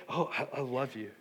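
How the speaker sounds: tender groom. Acted. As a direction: drop from preaching into gentle affection. Voices the groom's love.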